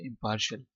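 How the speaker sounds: "इम्पार्शियल" with the r sounded, im-PAR-shul; American pronunciation. Shown as a demonstration. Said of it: "आर को पढ़ना है". (अमेरिकी "इम्पार्शियल", "र" बोलते हुए)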